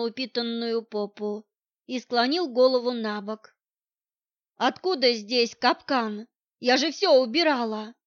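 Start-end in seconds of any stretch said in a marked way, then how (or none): none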